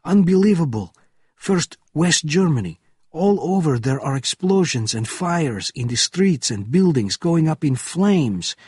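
alarmed officer's shout. A narrator's reading. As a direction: shout out the disaster report in alarm. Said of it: "shouted an officer from the gatehouse window".

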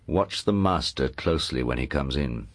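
low, soft, menacing confidential voice; undertone. Acted. Lord to his hidden niece by the wardrobe, in an undertone. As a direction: speak secretly under your breath, pitched well down. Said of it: "spoke in an undertone".

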